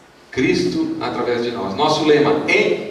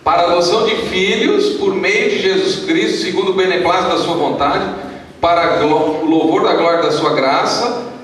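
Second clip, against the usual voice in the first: scripture reading; 4 semitones higher than usual. Acted. Pastor reading Efésios to the church, measured declamation. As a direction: read out the verse, stretching the key words. Reads scripture aloud to congregation.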